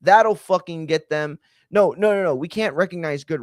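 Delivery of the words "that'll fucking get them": mock eager sales team; hammed-up pitch, stretching the buzzwords; clueless sales team. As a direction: play marketers pushing hip language. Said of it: "They're like".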